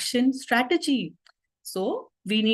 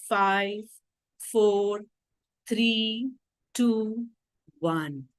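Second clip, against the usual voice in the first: calm counting; much slower than usual. Shown as a demonstration. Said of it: "In a very calm and composed tone".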